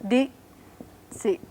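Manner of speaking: "Di, si" with "Di" on a high pitch; high pitch accent. Shown as a demonstration. Teacher shows the high pitch mark on "Di". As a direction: put "Di" high, then "si". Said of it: "an accent that goes this way".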